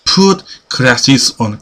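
slowly spaced word by word; slow demo. Shown as a demonstration. Teacher modelling the English phrase for students, slowly. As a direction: say it slowly for learners. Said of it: "자, 천천히".

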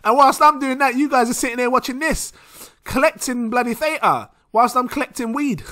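giggling at his own joke; laughing while telling it. Real, not acted. Laughing through the story.

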